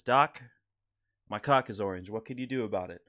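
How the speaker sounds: Norm Macdonald impression. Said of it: "this is my rendition of the Norm Macdonald joke".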